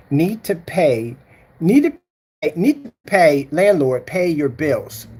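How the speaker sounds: slow, scornful repeat of the scammer's words; slow mocking reread. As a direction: drag out "Need to pay" mockingly. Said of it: "Did he just say".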